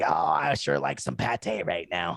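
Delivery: surprising low, deep cat voice. Describing the voice they give their little orange cat, doing the cat's voice. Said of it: "the cat's voice is like".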